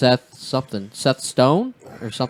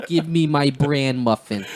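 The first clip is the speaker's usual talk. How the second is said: put-on old lady Jewish accent; 3 semitones higher than usual. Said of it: "It was an old lady Jew accent".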